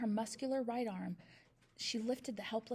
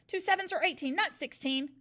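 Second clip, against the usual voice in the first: put-on high, louder panicked boy; frightened cry; 6 semitones higher, 5 dB louder than usual. A narrator's reading. Boy correcting himself in panic, frightened cry. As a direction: blurt it out in a fright. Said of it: "he cried".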